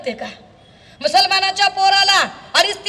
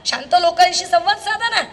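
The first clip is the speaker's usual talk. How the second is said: normal talking voice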